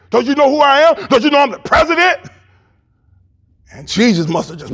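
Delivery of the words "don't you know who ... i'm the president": a hint of a high, puffed-up Pilate; boastful Pilate. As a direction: brag like you own the place. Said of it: "Pilate was getting boastful up there".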